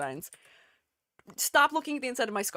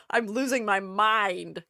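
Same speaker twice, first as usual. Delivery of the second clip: laughing; 3 semitones lower, slower than usual. Real, not acted. Laughs after the crash.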